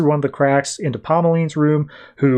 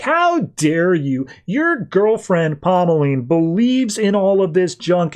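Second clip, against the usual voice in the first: slow, higher, indignant mock scolding; mock outrage; 5 semitones higher, slower than usual. Olive accusing Heathcliff of faking the ghost, slow mock indignation. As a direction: drag out the accusation, lightly hammed.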